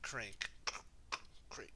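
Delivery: crank noise. Retold or imitated. Imitates creaking chain crank.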